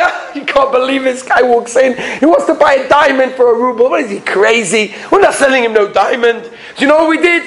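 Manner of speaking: acted amused incredulity; laughing mockery. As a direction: share the joke, barely believing it. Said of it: "So they're laughing, they're saying".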